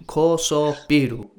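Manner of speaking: slow imitation of "Kosobiru", ko-so-bi-ru; learner's slow repeat of "Kosobiru"; Japanese pronunciation. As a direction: carefully echo "Kosobiru" in Japanese syllables. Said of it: "You have a good accent".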